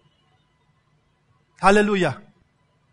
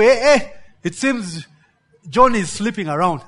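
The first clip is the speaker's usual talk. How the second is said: a hint of a gleeful gossip; 2 semitones higher, 3 dB louder than usual. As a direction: lean in, half-laughing, sharing juicy news. Gossip voiced in sermon.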